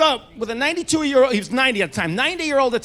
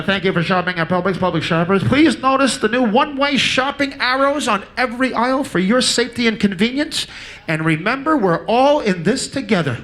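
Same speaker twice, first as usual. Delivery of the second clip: store loudspeaker announcement. Retold or imitated. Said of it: "the guy comes on the loudspeaker".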